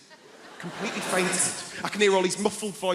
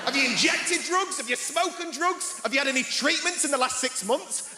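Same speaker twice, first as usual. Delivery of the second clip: prim nurse voice; 8 semitones higher than usual. Retold or imitated. Quoting nurse's questions, high voice.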